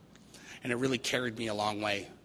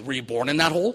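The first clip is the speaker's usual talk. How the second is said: lightly acted psychiatrist, louder with a rising finish; comic therapist query, swooping up at the end; psychiatrist's probing question; 3 semitones higher, 6 dB louder than usual. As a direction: push the question up into mock disbelief.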